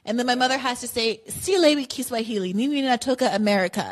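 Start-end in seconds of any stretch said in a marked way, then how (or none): 1.3-3.9 put-on mother's clumsy American-accented Swahili, slightly raised; a light mock of an American mangling Swahili; horrible American accent in Swahili. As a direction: imitate a thick American accent stumbling through Swahili. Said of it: "in her horrible accent".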